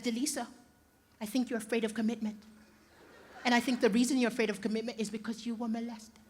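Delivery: soft, low, measured analysing voice; calm therapist girlfriend. Retold or imitated. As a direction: deliver the diagnosis quietly and evenly. Imitates calm psychologist partner analysing him.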